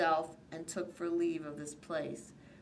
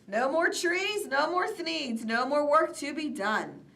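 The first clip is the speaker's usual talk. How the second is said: lament; 7 semitones higher, 4 dB louder than usual. A narrator's reading.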